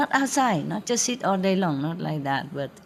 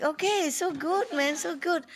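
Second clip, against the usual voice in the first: blissful; 10 semitones higher than usual. Retold or imitated. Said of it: "I feel like".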